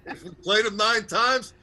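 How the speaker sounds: rousing coach speech, building; halftime pep speech. Retold or imitated. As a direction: fire up the team like a coach. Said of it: "that's Herb Brooks from the, uh, nineteen eighty Russian game".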